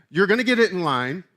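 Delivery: loud, stern mom laying down the law. Acted. Preacher voicing Paul with swagger, stern mom voice. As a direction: put on a no-nonsense mom voice. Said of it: "doing the mom voice".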